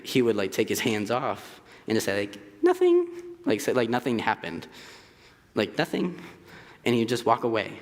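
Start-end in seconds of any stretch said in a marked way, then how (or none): 2.6-3.1 sudden innocent nothing. Retold or imitated. Roommate denies after choking him. 5.5-6.2 innocent nothing. Retold or imitated. Repeating roommate's innocent denial.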